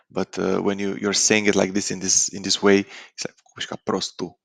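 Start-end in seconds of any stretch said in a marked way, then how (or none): 3.4-4.4 prostul said as "prostu", the final L swallowed; final L dropped. Shown as a demonstration. Teacher showing how Romanians really say prostul, L dropped. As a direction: let the L of prostul vanish, "vorbești ca prostu". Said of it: "The L kind of disappears".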